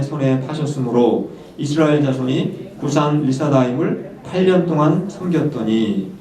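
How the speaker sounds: slow, measured congregational Bible reading; scripture reading. Acted. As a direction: lead the congregation through the verse, unhurried.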